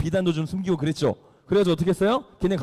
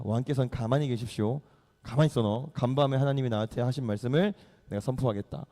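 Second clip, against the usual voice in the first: Samuel; 6 semitones lower, 5 dB quieter than usual. Acted. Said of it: "사무엘이 얘기합니다".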